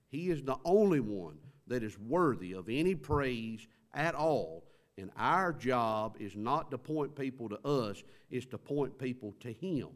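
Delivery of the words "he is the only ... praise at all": louder, rising on only; a preacher lifting up praise; preaching at full force. Real, not acted. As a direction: proclaim it to the room. Preacher proclaiming worthiness.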